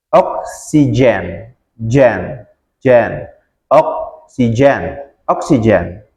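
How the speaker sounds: Oksigen broken down, gen said with j, slowly; slow it down and stress the j in Oksigen; slow model. Shown as a demonstration. Teacher drilling students on the j in Oksigen. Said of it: "itu ada D sama J".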